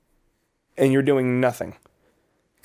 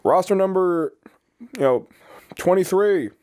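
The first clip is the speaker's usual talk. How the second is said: raised voice calling out roster number; drill sergeant calling roll; 6 semitones higher, slower than usual. Retold or imitated. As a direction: call the number across a formation. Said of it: "they'll go".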